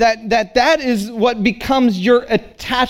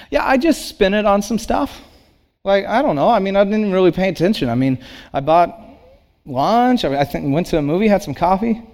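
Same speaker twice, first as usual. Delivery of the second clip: nonchalant. Retold or imitated. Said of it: "as nonchalant".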